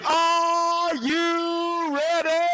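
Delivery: slow, high, stretched-out "Are you ready?"; drawn-out call to crowd. Acted. Comic to the crowd, slow high showman call. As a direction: hold every word like a game show host.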